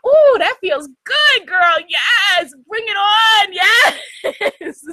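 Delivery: high, slow, pleased sigh of relief; blissful frog voice. Retold or imitated. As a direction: voice a frog loving the water. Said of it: "the frog is looking like".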